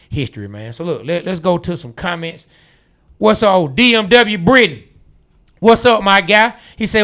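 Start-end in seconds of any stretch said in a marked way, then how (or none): 3.2-6.5 shouted, high hype shout-out; loud hype greeting. Real, not acted. Host hyping a loyal listener, loud and high. Greeting a fan loudly on air.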